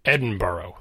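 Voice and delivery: "Edinburgh" ending in a full "oh", like borough; rejected American pronunciation. Shown as a demonstration. Podcaster showing a version Scots call wrong, rejected pronunciation. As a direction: say "Edinburgh" slowly with a rounded -burrow ending. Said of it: "Scottish person will say, Nope, wrong".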